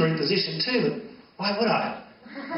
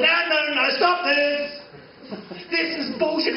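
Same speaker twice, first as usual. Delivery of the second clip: self-interrupting; 8 semitones higher than usual. Acted. Breaks off the rap.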